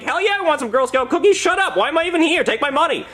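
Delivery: high, frantic enthusiasm; hammed-up excited outburst; overeager buyer. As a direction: blurt it out in greedy excitement. Acted eager reply to Girl Scouts.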